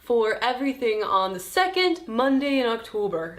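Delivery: lightly put-on Canadian accent; a not-very-good attempt at a Canadian accent; mock Canadian prime minister accent. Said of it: "That's my Canadian accent".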